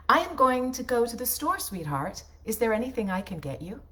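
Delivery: stiff, overly perfect diction, every word crisp; Stepford wife read. Shown as a demonstration. Voice actor to her husband, a stiff Stepford wife read. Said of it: "That sounds like a Stepford wife".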